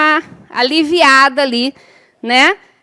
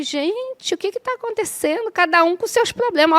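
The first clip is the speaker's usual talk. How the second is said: higher, much softer puzzled murmur; a soft, raised, bewildered question to herself; bewildered aside; 5 semitones higher, 6 dB quieter than usual. Retold or imitated. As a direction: ask it quietly, in disbelief. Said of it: "Aí eu falei".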